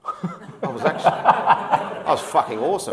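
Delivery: loud laughing boast, high and slow. Real, not acted. Laughing to the interviewer about being awesome at footy. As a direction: crack up at your own brag.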